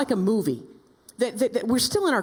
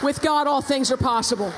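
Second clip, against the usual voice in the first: shouted motto; 3 semitones higher than usual. Real, not acted. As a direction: shout it out to the crowd. Closing rallying cry, shouted.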